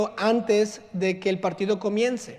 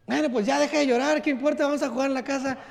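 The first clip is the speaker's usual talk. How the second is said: higher, brisk brush-off; dismissive dad; 5 semitones higher, faster than usual. Retold or imitated. Father telling crying daughter to stop, brisk. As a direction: tell her to stop crying, impatiently. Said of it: "father dismissing daughter".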